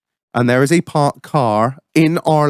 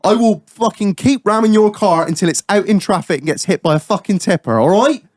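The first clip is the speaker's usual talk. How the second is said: retold threat; 5 semitones higher than usual.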